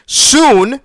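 indignant one-word jab; incredulous. Real, not acted. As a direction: repeat the word in disbelief. Scoffs at support's vague promise.

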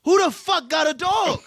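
asking the room who owns the dog, stunned; incredulous. Retold or imitated. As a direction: drag out the outrage in disbelief. Disbelief at the pit bull.

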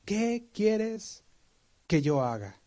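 high, trembling plea; Saul, afraid, asks the Lord with a trembling high voice; trembling and fearful. Retold or imitated. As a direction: Saul trembling, asking what to do. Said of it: "temblando y temoroso".

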